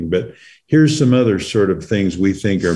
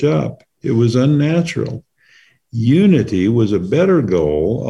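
book reading. A narrator's reading. Reads passage from own book.

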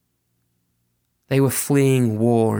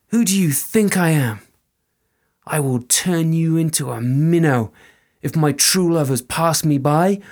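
higher, louder stern fairy; threatening fairy woman; 5 semitones higher, 3 dB louder than usual. Acted. Fairy woman curses the soldier, raised and stern.

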